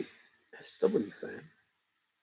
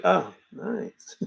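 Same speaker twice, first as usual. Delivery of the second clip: Yoda voice; 3 semitones higher than usual. Retold or imitated. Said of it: "His best Yoda voice".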